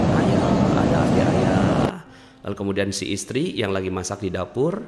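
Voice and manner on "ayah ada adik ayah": retold scream. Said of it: "Teriaklah ini dua kakaknya".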